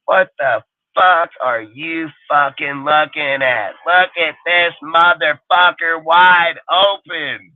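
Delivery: slow, high, drawn-out mock yell; imitating yelling coach. Coach yelling at his quarterback about an open receiver, imitated. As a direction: stretch out each word like an exasperated coach yelling. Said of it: "yelling at that dipshit".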